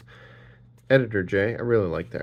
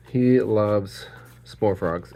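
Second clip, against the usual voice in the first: 1 slow teasing; much slower than usual. Real, not acted. Teasing remark.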